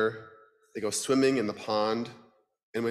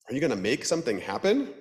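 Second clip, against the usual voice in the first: duck voice; 3 semitones higher, faster than usual. Acted. Duck character voice.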